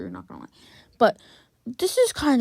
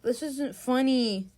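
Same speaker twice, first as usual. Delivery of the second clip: restrained complaint; slower than usual. Real, not acted. First complaint, escalates on repeat.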